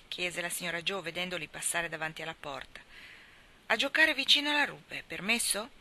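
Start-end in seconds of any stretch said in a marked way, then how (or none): 3.7-5.7 put-on 1 eager child call. Children calling to mother.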